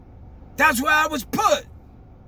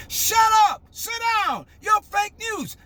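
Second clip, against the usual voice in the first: higher-pitched retold angry order; imitating the president; 7 semitones higher than usual. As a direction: bark it like a dismissive president. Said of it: "should talk like that".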